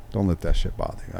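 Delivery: softly soothing, low-key retelling; mild calming. Retold or imitated. Inmate easing an angry officer's mood, mildly calming.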